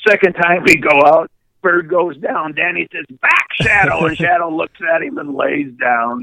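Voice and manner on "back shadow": lightly called, higher-pitched order; retold dog command. Owner sending his Weimaraner out, mildly called command. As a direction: call out a mock command to a dog.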